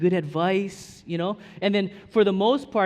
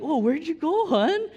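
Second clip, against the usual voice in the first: high, louder playful question; high mock husband; 11 semitones higher, 4 dB louder than usual. Husband replays asking wife about her day. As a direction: ask sweetly in a raised voice. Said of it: "I'm like".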